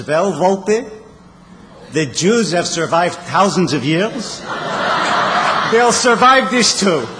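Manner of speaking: put-on a light, slow Yiddish-accented old teacher; lightly imitating the old Hebrew teacher's Yiddish accent. Old Hebrew teacher answering the would-be rabbi, Yiddish accent. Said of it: "the teacher said in his Yiddish accent".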